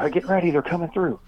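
calling ahead in a hammed-up warning; retold call out. Farmer warns the others the pigs are coming, mock call. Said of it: "and they said".

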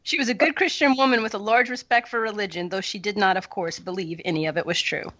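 reading a passage aloud, measured; story reading. Acted. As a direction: read the passage with care, like to a class.

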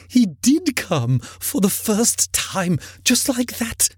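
put-on high, excited old man's reminiscence; between laughing and crying. A narrator's reading. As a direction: pour it out in earnest, high-pitched delight. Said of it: "extraordinary voice between laughing and crying".

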